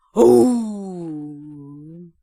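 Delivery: long roar falling away; imitated lion roar. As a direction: let out a lion's pouncing roar. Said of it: "소리를 내는 그 소리". (먹잇감 덮치는 사자 울음 흉내)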